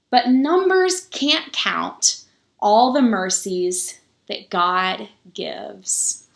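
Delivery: slow, measured picture-book reading with pauses; story reading. A narrator's reading. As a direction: read it to the children slowly, lingering on each number. Reads the picture book aloud.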